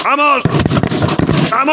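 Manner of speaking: fired-up shout of Vamos; excited cheer. Real, not acted. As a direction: cheer yourself on. Cheering on a race.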